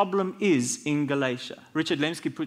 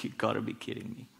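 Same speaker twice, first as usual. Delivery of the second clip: stunned disbelief; 10 semitones lower, 12 dB quieter, faster than usual. Retold or imitated. Mentee hears mentor's name.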